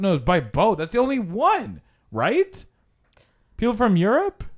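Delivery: high-pitched mock guide, insisting; imitating a guide correcting the group; tour guide's delivery. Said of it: "he's like".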